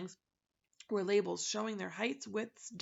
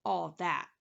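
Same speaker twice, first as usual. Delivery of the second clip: sympathetic; 2 semitones lower, 6 dB louder than usual. Acted. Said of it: "from his most sympathetic face".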